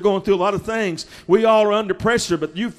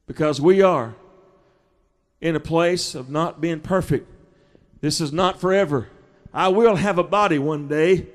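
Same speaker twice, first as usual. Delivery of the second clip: much softer, intimate preaching; soft confiding; 6 semitones lower, 5 dB quieter than usual. Acted. Preacher softly confides hope of a new body. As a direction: drop the voice down low and close.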